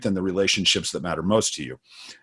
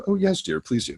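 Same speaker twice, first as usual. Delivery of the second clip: higher, softer, prim little "Oh, yes, dear"; mock genteel wife; 3 semitones higher, 5 dB quieter than usual. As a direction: ham up a dainty lady accepting. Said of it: "And that's how we talk".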